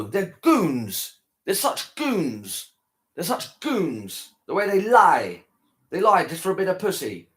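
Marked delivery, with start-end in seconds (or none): 0.0-2.7 scornful. Real, not acted. Scorn for men. 3.1-4.3 scornful. Real, not acted. Scorn for men.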